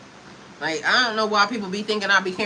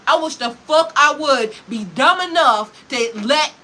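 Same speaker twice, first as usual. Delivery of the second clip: slower and louder, each word hammered; emphatic repeat; 3 semitones higher, 5 dB louder than usual. Real, not acted. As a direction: drive the repeat home with slow heavy force. Repeats the line with force.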